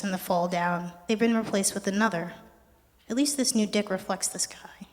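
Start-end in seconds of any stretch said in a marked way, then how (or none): 3.1-4.9 whispery voice breaking. Real, not acted. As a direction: voice cracking on the words. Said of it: "my voice broke".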